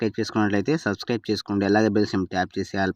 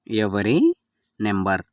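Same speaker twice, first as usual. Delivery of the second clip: word by word. Shown as a demonstration. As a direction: separate ఎవరి and number for learners. Teacher repeats phrase word by word. (పదం పదంగా, మధ్యలో ఆగి)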